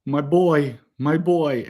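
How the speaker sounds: lightly voiced old Italian nonna; Italian grandmother. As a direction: imitate an Italian grandmother calling to her boy. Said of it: "speaks broken English".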